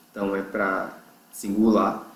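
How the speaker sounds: normal talking voice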